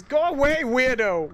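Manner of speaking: high, loud retold yell of go away; mock yell. Elf yelling at peeping Tom Elf, high mock shout. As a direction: bark it like an elf shooing off a creep.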